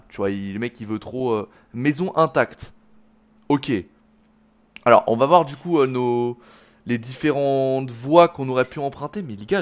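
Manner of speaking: usual speaking voice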